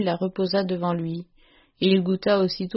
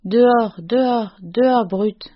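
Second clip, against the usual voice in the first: raised-voice furious order, held short of screaming; enraged sputtering; 2 semitones higher, 5 dB louder than usual. A narrator's reading. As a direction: narrator voicing an enraged father, louder at the start. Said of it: "Il balbutiait".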